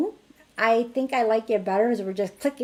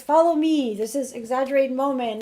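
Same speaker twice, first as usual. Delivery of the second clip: high, bright call to play; rally the kids, lighten the mood; upbeat invitation to play; cheery call to kids; 4 semitones higher, 4 dB louder than usual. Shown as a demonstration. Leading kids in exercise.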